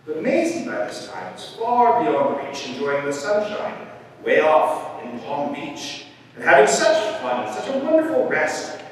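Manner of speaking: expressive, lilting picture-book reading; story narration. A narrator's reading. Reader tells of bird's holiday and winter, storytelling. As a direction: play up the rhymes and contrasts.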